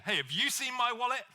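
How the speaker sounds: a hint of accusation in the question; mildly accusing husband asking his wife. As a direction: ask it like she surely moved it. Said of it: "with a degree of accusation".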